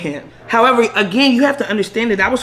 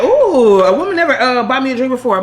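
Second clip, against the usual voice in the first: higher, louder impressed ooh; lightly mimicking him; 5 semitones higher, 4 dB louder than usual. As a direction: play him flattered, a bit camp. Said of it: "And he like".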